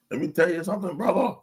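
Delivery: catchphrase with a rising brother; tossing off the wrestler's catchphrase; Hulk Hogan impression. Quoting the wrestler's catchphrase to friends, mild Hogan impression. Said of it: "That's Hulk Hogan".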